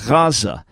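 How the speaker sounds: "Gaza" with a throaty sound between ayin and G. Shown as a demonstration. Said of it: "more like a g sound".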